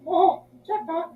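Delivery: high, slow delighted exclaim; excited discovery. Retold or imitated. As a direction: gasp it out like finding treasure. Discovering bins full of purses.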